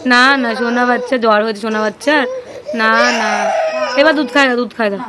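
mother loudly coaxing milk; loud tender coaxing. Real, not acted. Coaxing crying child to drink milk.

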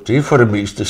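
words spilling out through a laugh. Real, not acted. Painter laughing while retelling a Faroese man's remark. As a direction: chuckle through it, amused at the memory.

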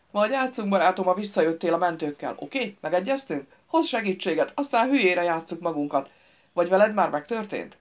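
lightly voiced grouch humouring a fool; trapped driver, bargaining. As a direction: push for agreement with strained patience.

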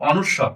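"অনুস্বর" said distinctly as a model; standard pronunciation. Shown as a demonstration. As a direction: pronounce the letter name "অনুস্বর" carefully for learners. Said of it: "এটার উচ্চারণ হবে মূলত".

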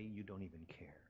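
whispered complaint to God; quiet whisper. Retold or imitated. Believer alone at home whispering to God, hurt. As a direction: breathe it out under the breath. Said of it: "And we'll think quietly".

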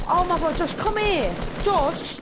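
calling from far away. Real, not acted. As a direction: yell across to get his attention. Calling teammate across the map.

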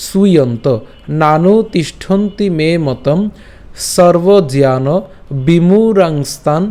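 slow, measured Sanskrit verse recitation; শ্লোক recitation. Shown as a demonstration. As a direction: recite each quarter slowly, drawing out long vowels. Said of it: "শ্লোকটি আরেকবার একটু ভেঙে দিয়েছি". (ধীরে টেনে টেনে শ্লোক পাঠ)

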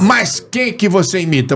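Antônio Carlos. Acted. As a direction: ask in a lightly imitated host voice. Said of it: "Antônio Carlos".

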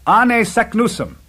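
high, loud, slow exclamation; triumphant cry. A narrator's reading. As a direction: proclaim the name, drawn out in excitement. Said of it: "cried my uncle".

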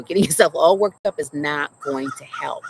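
a fond laugh through her mom's words; laughing mama quote. Retold or imitated. Retelling her mom's calming words to the audience, laughing. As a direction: quote mom again, breaking into a laugh. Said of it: "She's like, you know".

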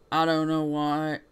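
slow, drawn-out southern drawl; southern accent. Shown as a demonstration. Player hunting for a forgotten voice, southern accent. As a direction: stretch WHY into a southern "wah". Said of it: "blanking on a southern accent".

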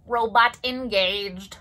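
stiff mechanical robot voice. Shown as a demonstration. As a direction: speak like a toy robot. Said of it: "Can everybody use your robotic voices?".

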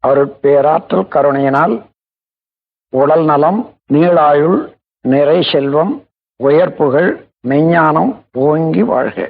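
slow, measured invocation; recited blessing. Acted. Teacher opening a relaxation session with a blessing, slow solemn recitation. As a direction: intone each phrase with drawn-out vowels.

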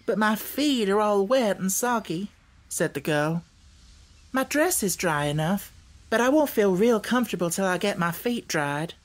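put-on storybook girl's mild protest; Dorothy, complaining girl. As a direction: grumble lightly as a young girl. Narrator voices Dorothy.

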